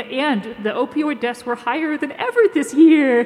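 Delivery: put-on slow baby talk. Shown as a demonstration. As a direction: coo the headline to a baby. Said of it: "like, a baby voice".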